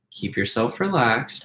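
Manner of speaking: soft, slow and steady, calming someone down; calm soothing voice. Retold or imitated. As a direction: talk them down gently. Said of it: "I was intentionally talking calm".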